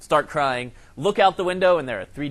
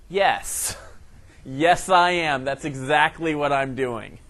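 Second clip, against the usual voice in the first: dry sarcastic reply; 3 dB louder, slower than usual. Retold or imitated. Deadpan reply to cashier.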